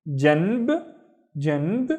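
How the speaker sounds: "janb" said twice, clipped final b; Arabic janb. Shown as a demonstration. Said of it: "But then".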